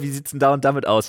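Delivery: lightly mimicking a friend's question; high imitating voice. Voicing Paul's plain question.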